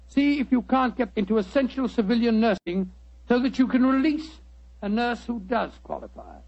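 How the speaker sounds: earnest appeal to nurses; sincere wartime plea to nurses listening; public service appeal. Acted. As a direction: urge nurses to act now.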